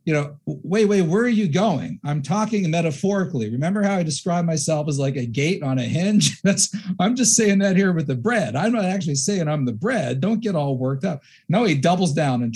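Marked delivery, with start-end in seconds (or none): 0.5-11.2 lightly voiced, a bit higher, hurried backpedalling; a touch of a flustered Jesus; mock pleading Jesus. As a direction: pretend to call the disciples back, half-joking. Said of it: "Jesus could have said".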